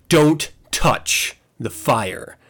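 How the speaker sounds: slow, spaced-out parental warning; stern warning. Retold or imitated. Father warning his daughter off the candles, stern and slow. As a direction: lay it down word by word, slowly.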